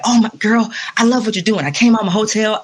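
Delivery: a hint of his excited manner of talking; Sinbad. Musician retelling how the comedian praised her street playing, light impression. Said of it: "I have to talk like that".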